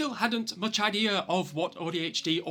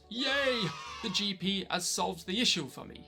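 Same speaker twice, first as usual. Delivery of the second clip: high, mock-cheerful yay; mock-excited, naively happy; 5 semitones higher than usual. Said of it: "like the idiot I was at the time and thought".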